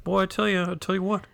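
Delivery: imitated Wisconsin speech; Wisconsin accent. Shown as a demonstration. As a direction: play an emphatic Wisconsin local. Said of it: "what do they say".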